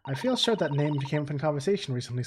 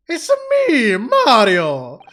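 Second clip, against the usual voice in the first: very high, loud squeaky Mario shout; 7 semitones higher, 11 dB louder, much slower than usual. Pretend. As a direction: burst in as a cartoon plumber. Sudden silly character voice.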